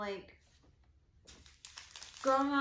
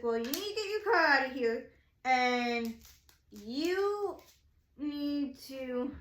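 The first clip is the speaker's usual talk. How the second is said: mildly nasty, emphatic mock order; kinda nasty; 3 dB louder, slower than usual. Lady cop ordering a stranded driver to move, kinda nasty. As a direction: imitate a nasty officer, drawing out the last words. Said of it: "she said it kinda nasty".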